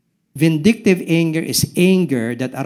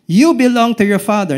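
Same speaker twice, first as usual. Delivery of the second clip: stern rebuke; 8 semitones higher, 7 dB louder than usual. Acted. Quoting Jesus to the Pharisees.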